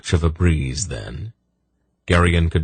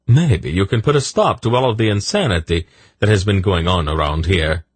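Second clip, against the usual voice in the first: higher, eager-to-please voice; butter up an official in a raised voice; ingratiating little man; 3 semitones higher than usual. Acted. Silk talking their way past a boat officer, ingratiating.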